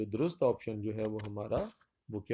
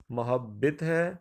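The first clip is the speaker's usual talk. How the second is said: slow drawn-out reading; 3 dB louder, much slower than usual. Shown as a demonstration. Teacher reads the options slowly to the class. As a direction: stretch out محبت ہے very slowly. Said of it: "یعنی محبت ہے".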